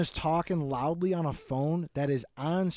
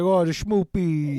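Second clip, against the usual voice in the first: put-on baby voice; 5 dB louder, slower than usual.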